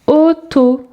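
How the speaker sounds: put-on segmented word for young readers; syllable by syllable. Shown as a demonstration. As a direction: split "Auto" into two held syllables.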